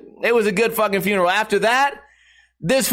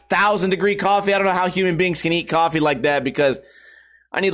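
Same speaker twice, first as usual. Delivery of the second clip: normal talking voice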